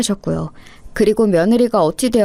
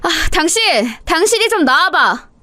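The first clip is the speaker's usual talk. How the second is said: calling out; 7 semitones higher than usual. Acted. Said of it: "자기 아들을 이렇게 부른 것".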